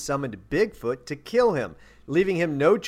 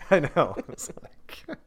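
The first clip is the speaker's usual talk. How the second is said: laughing under breath in a whisper; stifle a laugh and whisper it; 5 dB quieter than usual. Real, not acted. Stifled laugh at absurd volunteer.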